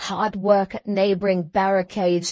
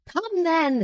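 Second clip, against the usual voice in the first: high, ringing rallying call; resounding voice; 6 semitones higher than usual. A narrator's reading. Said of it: "said Defarge in a resounding voice".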